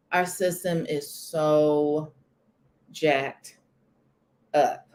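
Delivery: "Our system is so jacked up" drawn out slowly; each word of "so jacked up" spaced; slow emphatic repeat. Shown as a demonstration. Emphatic repeat to viewers about the system.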